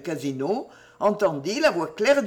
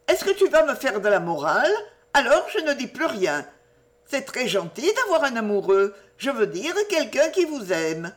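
put-on higher-pitched girlish confiding chatter; chatty, cheeky Jenny; 4 semitones higher than usual. Jenny confiding in Lucienne about lovers and forbidden novels, cheeky and excited. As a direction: prattle on eagerly like a girl sharing secrets.

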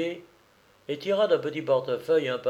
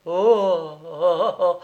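dazed moaning; 5 semitones higher, 7 dB louder, slower than usual. Acted. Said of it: "faisait-il".

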